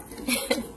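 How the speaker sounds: short breathy chuckle; soft laugh. Acted. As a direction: let out a small laugh at the memory. Acted fond memory of pond night.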